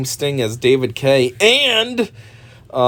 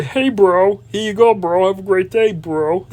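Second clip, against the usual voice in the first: mocking a bro at the drive-thru window; 5 semitones higher, slower than usual. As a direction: ham up a lazy bro greeting. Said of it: "I used to make a joke and say".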